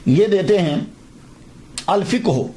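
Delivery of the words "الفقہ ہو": الفقہ read out as "al-fiq-hu"; careful Arabic "al-FIQ-hu" for الفقہ; dictionary pronunciation. Shown as a demonstration. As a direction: say الفقہ ہو with "fiq" closed, then "hu". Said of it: "کیا pronunciation جو ہے وہ دیا".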